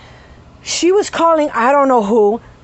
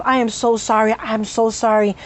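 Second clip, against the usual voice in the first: sincere apology; 3 semitones lower than usual. Retold or imitated. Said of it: "sincerest, softest mannerism".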